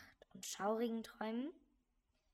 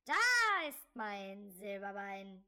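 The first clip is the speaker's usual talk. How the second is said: loud, slow sudden scare yell; jump scare shout; 7 dB louder, much slower than usual. Acted. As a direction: burst out to frighten the listener.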